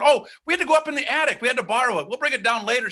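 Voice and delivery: lightly acted scrambling alibi; hasty excuse. Hasty excuse given to mother.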